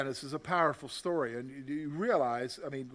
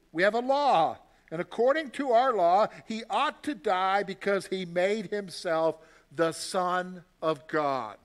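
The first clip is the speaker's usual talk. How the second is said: louder, forceful accusation; insistent; 6 dB louder than usual. Acted. Jews demanding Pilate condemn Jesus, loud insistence. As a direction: press the charge hard.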